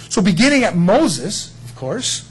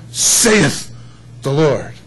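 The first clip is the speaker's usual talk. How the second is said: drawn-out archaic "Saith", weighty pulpit tone; authoritative King James; 3 semitones lower, much slower than usual. Shown as a demonstration. Pastor showing the congregation the King James way, solemn and drawn out. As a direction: lean on "Saith" like an old preacher. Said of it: "quote the King James, 'cause it's authoritative".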